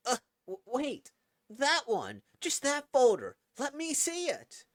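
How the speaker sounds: high, loud, panicked cry to stop it; panicked old man. Acted. Old man begs the AI to wait, panicked high shouts. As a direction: stop the deletion before it's too late.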